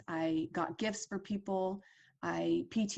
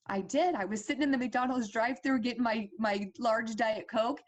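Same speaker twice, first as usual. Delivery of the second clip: choked up; 4 semitones higher, 3 dB louder than usual. Real, not acted. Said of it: "Oh, I don't wanna get choked up".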